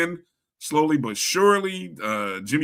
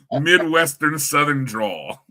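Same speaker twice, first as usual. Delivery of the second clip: drawn out and louder, just after laughing; amused; 5 dB louder, slower than usual. Real, not acted. Host laughing at co-host's name for his accent, amused and drawling. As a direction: repeat it slowly, tickled by the label.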